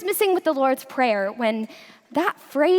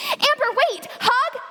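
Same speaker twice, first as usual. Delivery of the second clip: calling out; 7 semitones higher than usual. Acted. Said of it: "she yelled".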